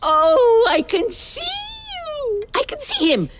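high, teary joy at seeing son; overjoyed, voice catching; emotional delight. Acted. Mother sees son on screen.

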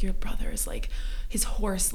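hushed retelling. Retold or imitated. Retold emotional scene.

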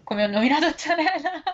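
hiccuping mid-sentence; a hiccup jolts the voice up. Real, not acted. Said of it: "mi è venuto il singhiozzo".

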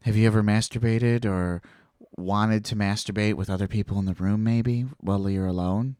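a hint of a low, insinuating priest; imitated priest. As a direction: ease into a leading question like a confessor. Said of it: "Just like that".

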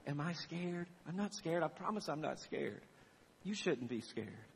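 soft, steady soothing parent; calm fatherly reassurance. Retold or imitated. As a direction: quietly promise safety to a child. Father reassuring frightened child.

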